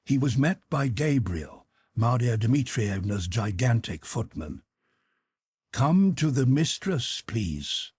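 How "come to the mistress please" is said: footman's voice dropping low on the last word; a hint of a big footman's low voice; deep bass. Gigantic footman blocks the visitor's retreat, lightly voiced low. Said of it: "said the footman in his deep bass".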